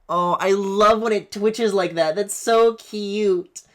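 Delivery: high, slow squeal of delight; cooing. Real, not acted. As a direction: coo at it like a pet. Cooing at the rigged model.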